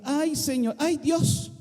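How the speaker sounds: a mock moan to God; whiny complaint. Shown as a demonstration. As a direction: groan "ay, Dios" like a reluctant believer. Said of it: "Así decimos aquí".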